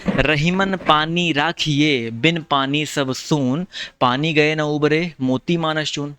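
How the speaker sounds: the couplet read very slowly, word by word; slow recitation. Shown as a demonstration. Teacher reciting Rahim's couplet slowly to students. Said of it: "कौन सा अलंकार".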